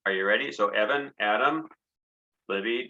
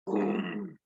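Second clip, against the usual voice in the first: thunder boom; 3 semitones lower, 6 dB quieter than usual. Shown as a demonstration. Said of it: "far distant storm".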